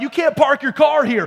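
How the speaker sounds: loud retold yell; a drunk neighbor shouting over a parking spot. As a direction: bark it like an angry drunk. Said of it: "we started just kinda yelling back and forth".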